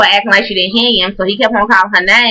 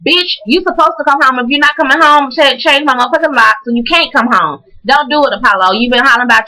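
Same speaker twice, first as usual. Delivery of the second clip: higher, heated telling-off; exasperated scolding; 5 semitones higher than usual. Real, not acted. Vlogger scolding Apollo for not coming home, exasperated. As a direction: scold him like he should know better.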